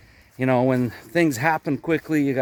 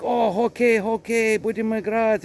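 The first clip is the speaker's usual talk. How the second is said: high-pitched retold enthusiasm; imitated excitement; 8 semitones higher than usual. Imitating the driver talking hockey, excited. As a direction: play the driver's eager interest.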